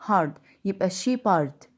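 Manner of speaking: shepherd built slowly from sheep and hard; slow down and join the halves; slow split word. Shown as a demonstration. Teacher slowly joining the two halves of shepherd. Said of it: "كأني قسمت الكلمة نصين".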